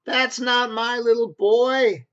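high, slow, stunned new father; a dad who can't believe his eyes; mock shocked father, high and slow; shocked daddy. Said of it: "Proud new daddy".

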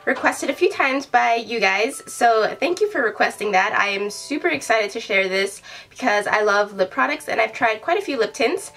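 stuffy nose from a cold; talking through a blocked nose; nasally voice. Real, not acted.

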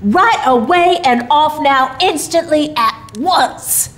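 a hint of jolly, brisk Santa. A narrator's reading. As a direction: rattle it off like an obliging Santa. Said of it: "returned Santa promptly".

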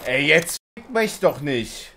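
berserk rage. Real, not acted. Angry at getting killed.

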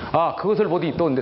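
usual speaking voice

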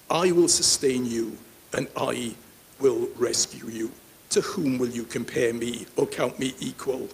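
deliberate verse reading that sinks as it goes; spaced-out Bible reading, easing down; scripture reading. Acted. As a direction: read God's promise phrase by phrase. Reads God's words from scripture.

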